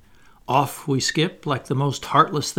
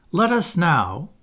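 slow, higher, louder declamation; grand storytelling effort; 6 semitones higher, 5 dB louder, slower than usual. A narrator's reading. Wendy bracing for her finest effort, declaiming grandly. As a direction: build up to a grand finale. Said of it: "bracing herself up for her finest effort".

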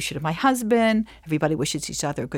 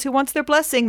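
much higher, sing-song invitation; inviting father; 8 semitones higher than usual. Retold or imitated. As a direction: offer the blessing like a beaming dad. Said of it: "He says".

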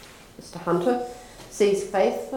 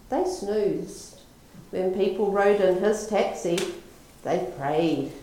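compassionate; 3 semitones higher than usual. Acted. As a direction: explain it patiently like a kind saint. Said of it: "says with compassion".

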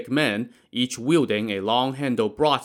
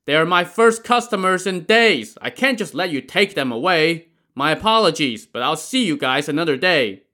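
high loud reply; shouting back; 6 semitones higher, 5 dB louder than usual. A narrator's reading. Boatman refusing the gang, shouting back. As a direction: shout it over your shoulder while rowing. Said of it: "and shouted back".

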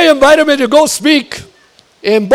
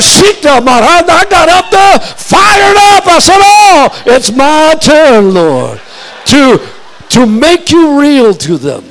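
fired-up preaching; 3 dB louder, slower than usual. Retold or imitated. Preacher reliving his fired-up turn at the mic. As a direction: take the stage full of fire. Retold fired-up tongues on stage.

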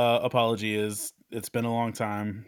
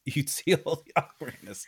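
laughing; 3 semitones higher than usual. Real, not acted. Co-host jokes while laughing.

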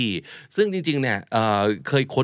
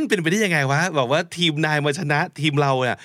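acted whiny protest, pitched up; sore-loser disbelief; 5 semitones higher than usual. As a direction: refuse to accept losing, half in earnest. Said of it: "เกมจบคนไม่จบ". (แกล้งงอแง ไม่ยอมรับว่าแพ้)

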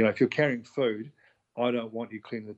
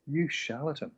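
mock accusation; 4 semitones higher, 4 dB quieter than usual. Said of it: "And you'll go".

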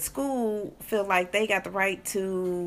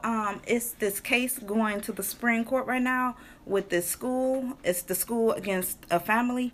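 higher, plaintive explanation; impassioned, nearly whining tone; whiny, passionate; 3 semitones higher than usual. Real, not acted. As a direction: explain it with a touch of a whine. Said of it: "Are you whining or something".

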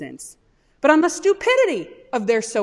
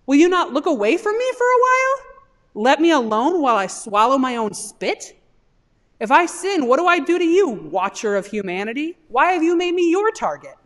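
higher and louder, pleading angrily with God; anguished protest; 4 semitones higher, 4 dB louder than usual. Acted. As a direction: cry out at God like a wronged man. Job's anguished cry to God.

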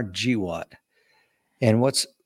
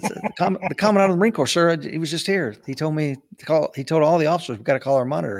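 eager high answer; 5 semitones higher, 3 dB louder than usual. Retold or imitated. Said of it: "I said".

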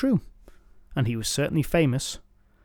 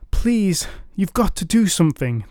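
higher, pleading crowd voice; begging; 6 semitones higher than usual. Acted. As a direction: plead with the knight. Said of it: "they begged".

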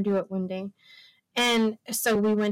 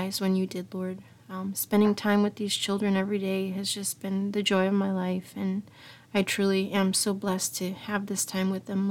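closing prayer. Real, not acted. Mother closing the live show in earnest prayer.

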